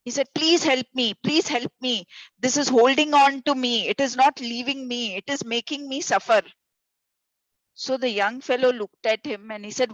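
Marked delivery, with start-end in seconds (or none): 0.3-6.4 higher, hammed-up plea for help; a monk pretending to panic on a pole; mock scream. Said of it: "started screaming".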